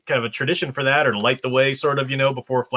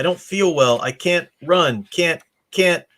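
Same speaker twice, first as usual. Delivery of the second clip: a hint of a failing child voice; 4 semitones higher, slower than usual. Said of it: "the voice began to fail".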